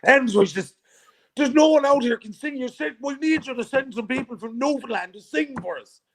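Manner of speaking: high, loud Irish brogue, half-laughing; a playful try at an Irish lilt; imitating Thomas in a hammed-up Irish accent. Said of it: "Let me see if I can do the Irish accent".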